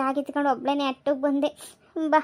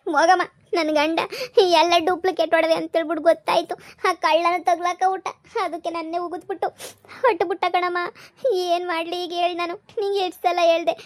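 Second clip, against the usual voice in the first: higher, tearful complaint; crying; 4 semitones higher than usual. Acted. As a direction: sob it out to your mother. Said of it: "ಅಳ್ಬೇಡ ನೀನ್".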